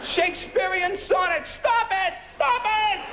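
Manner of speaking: hammed-up panic at sonnets; mock terror. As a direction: cower from the poets.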